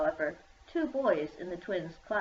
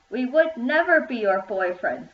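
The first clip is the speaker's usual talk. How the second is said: louder, higher, offended insistence; indignant; 4 semitones higher, 7 dB louder than usual. A narrator's reading. Jake rejecting the rival girls, loud and indignant. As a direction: fling the refusal back. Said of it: "said Jake indignantly".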